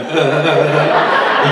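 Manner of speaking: slow, strained rubbing grunts; mimed effort grunts. Acted. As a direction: grunt along as if wriggling on your back. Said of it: "you get on your back and you go".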